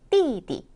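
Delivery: plunge on 띠, lightly tack on 디; fourth plus neutral tone. Shown as a demonstration. Teacher demonstrating tones, 띠디 sharp fall then light ending. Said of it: "사성 경성".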